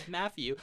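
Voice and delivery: "Matthew" said as "Maffew". Shown as a demonstration. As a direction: say "Matthew" with an F in the middle. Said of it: "they come out like F's".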